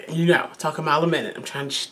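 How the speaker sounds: rushing speech. Real, not acted. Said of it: "trying not to speed up".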